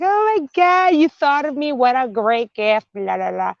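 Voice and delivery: high, gushing "oh my God" at a gift; mock gift excitement. Spouse receiving a surprise gift, gushing. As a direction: gush over the gift like a delighted spouse. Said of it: "It's like".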